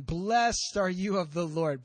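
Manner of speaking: slow, drawn-out pious blessing; spiritual-sounding greeting. Acted. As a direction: put on a touch of lofty piety. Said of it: "that sounds spiritual".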